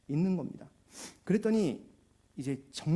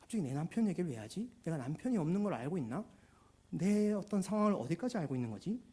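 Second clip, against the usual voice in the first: acting out puzzled surprise; a mild startled reaction, then wondering to oneself; 3 semitones higher than usual. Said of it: "여인은 깜짝 놀라서". (깜짝 놀라 의아해하는 척)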